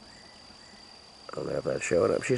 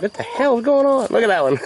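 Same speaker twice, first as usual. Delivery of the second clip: much higher, louder mock hen voice; a silly high chicken voice, louder; voicing a chicken; 12 semitones higher, 5 dB louder than usual. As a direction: play the confused hen squawking at the chaos. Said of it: "They're all like".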